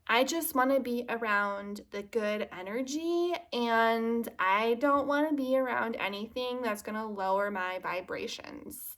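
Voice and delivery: lightly voiced good-vibes follower, slightly lifted; gently mock the good-energy crowd, dragging the end; mocking trend-followers. Mimicking everyone who's into the trend, mildly mocking. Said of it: "Everyone and their brother is like".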